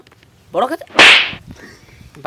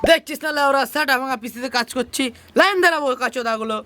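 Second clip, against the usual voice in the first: higher-pitched annoyed telling-off; irritated scolding; 5 semitones higher, faster than usual. Acted. Busy computer operator to waiting customers, irritated scolding. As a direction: snap at impatient customers.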